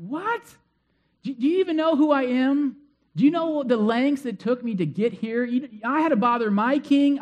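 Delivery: high, loud mock fury at the insult; indignant outrage. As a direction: play the offended great man, rising in disbelief. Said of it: "Naaman's just getting all angry".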